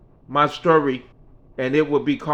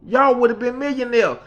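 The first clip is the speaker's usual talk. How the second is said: Mickey's voice; 10 semitones higher, 4 dB louder than usual. Retold or imitated. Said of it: "She said".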